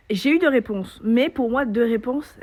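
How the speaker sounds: plus fort et plus aigu, tout excitée; insister, ravie, sur « deux réponses »; enthousiaste. Shown as a demonstration. Répète le nombre avec emphase. (joie appuyée)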